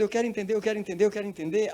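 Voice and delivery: high, insistent acted desperation; desperate. Woman desperate to understand the tongues, high frantic pleading. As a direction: plead over and over, pitched right up. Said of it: "ela começou a ficar desesperada".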